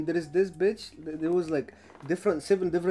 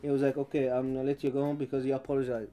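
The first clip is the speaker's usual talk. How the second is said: subdued apology; 4 semitones lower, 5 dB quieter, faster than usual. Retold or imitated. Retold apology to police officer.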